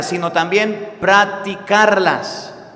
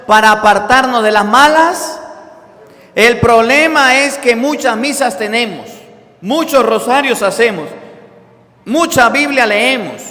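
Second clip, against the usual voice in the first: rally the congregation with the call; preaching at full force; 4 semitones higher, 6 dB louder than usual. Acted. Predica a toda voz. (predicación enérgica y fuerte)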